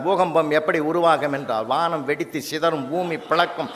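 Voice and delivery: reading student's answer. Retold or imitated. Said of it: "அவன் எழுதிக்கிறான் sir".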